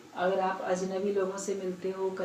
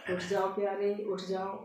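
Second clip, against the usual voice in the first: loving coaxing. Acted. Parrot rousing its dear master, lovingly. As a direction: coax a dear one out of bed. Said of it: "प्यार से बोल रहा है".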